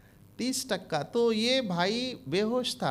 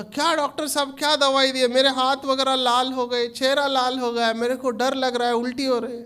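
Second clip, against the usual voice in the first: complaining patient; 4 semitones higher, 4 dB louder than usual. Retold or imitated. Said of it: "बोला".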